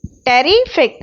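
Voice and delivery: टेरिफिक in two chunks, टेरि rising then फिक dropping; teacher dividing टेरिफिक into parts; syllable by syllable. Shown as a demonstration. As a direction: split टेरिफिक clearly before the last syllable. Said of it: "इसमें दो syllable हैं".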